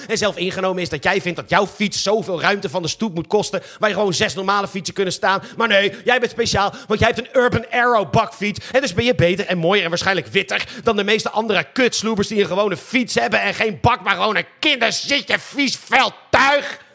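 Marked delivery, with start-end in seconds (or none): 5.6-16.9 mock-superior rant, building; sarcastic rant. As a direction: sneer it, rising into disgust. Sarcastic rant at bakfiets owners.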